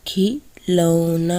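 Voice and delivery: खिलौना drawn out syllable by syllable; slow blended word. Shown as a demonstration. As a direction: stretch खिलौना slowly as you join the letters. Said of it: "क्या उच्चारण होगा हमारा?". ("खिलौना" धीरे-धीरे जोड़कर बोलना)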